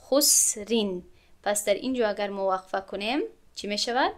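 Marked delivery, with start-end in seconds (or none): 0.0-1.0 خسرین drawn out slowly; slow tajweed خسرین; slow recitation. Shown as a demonstration. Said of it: "recitation example".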